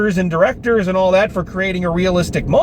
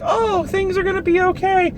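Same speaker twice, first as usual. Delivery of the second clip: much higher, sing-song false optimism; mock cheerful; 10 semitones higher than usual. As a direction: chirp it like everything is fine. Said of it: "The ending shot is one you're like".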